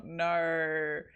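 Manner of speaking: laughing in disgust; squealing no through laughter. Real, not acted.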